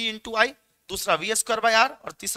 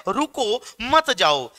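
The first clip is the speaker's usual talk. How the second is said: voicing resistivity; 3 semitones higher, 6 dB louder, slower than usual. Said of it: "resistivity कहता है".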